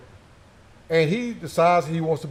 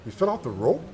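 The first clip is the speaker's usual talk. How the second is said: "He fell off the rope?" asked back, softer, rising on "rope"; mild disbelief; 3 semitones lower, 4 dB quieter than usual. Retold or imitated. Officer hearing the news, a touch of incredulity. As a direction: echo it back in quiet disbelief. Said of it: "the guy goes".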